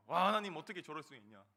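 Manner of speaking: retold outburst to God, loud at first, then dropping; indignant prayer. Evangelist praying against his accuser like David, retold indignant outburst. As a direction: cry out in protest, then let it sink. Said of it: "다윗이 대적들을 저주하듯이 기도하기 시작했습니다".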